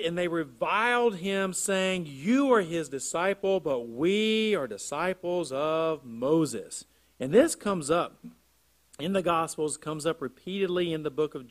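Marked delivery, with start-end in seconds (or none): 0.0-6.8 deliberate reading, stretching out the last phrase; scripture reading. Acted. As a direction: announce the verse strongly, then read it out. Reads scripture aloud to congregation.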